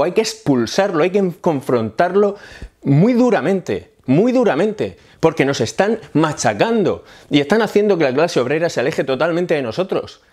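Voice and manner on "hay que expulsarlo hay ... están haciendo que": higher and heated, pounding each demand; heated outburst. Real, not acted. Heated rant, urging comrades to fight feminism. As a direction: rail at them, getting worked up. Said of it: "disculpad que me ponga así".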